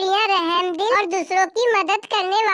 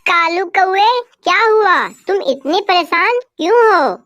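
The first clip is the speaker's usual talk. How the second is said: concerned call; 7 dB louder than usual. Acted. Parrot calls out to worried crow.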